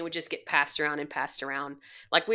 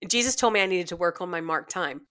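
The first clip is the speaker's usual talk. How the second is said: laughing retelling. Retold or imitated. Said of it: "he said".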